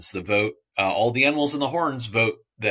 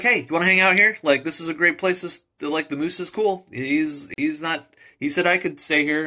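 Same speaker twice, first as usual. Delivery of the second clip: eager bug; 8 semitones higher, 4 dB louder than usual. Acted. Bug invites the bird over.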